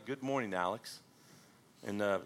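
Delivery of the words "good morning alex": quiet greeting. Acted. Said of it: "and he said quietly".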